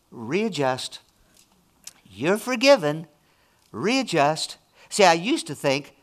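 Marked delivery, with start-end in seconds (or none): 0.1-4.6 soft, gentle, lower voice; loving Holy Spirit. Retold or imitated. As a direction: coax them kindly to readjust. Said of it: "the Holy Spirit's lovingly saying".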